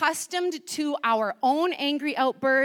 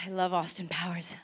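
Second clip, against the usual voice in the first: whispered aside; 7 semitones lower, 6 dB quieter than usual. Real, not acted. Aside after the impression.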